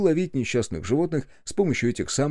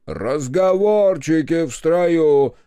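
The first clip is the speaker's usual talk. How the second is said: slow, louder stern rebuke; stern interruption; 6 semitones higher, 7 dB louder, much slower than usual. A narrator's reading. Senior officer silences talk in the ranks, stern rebuke. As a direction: cut the chatter off sharply. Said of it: "перебил его старший".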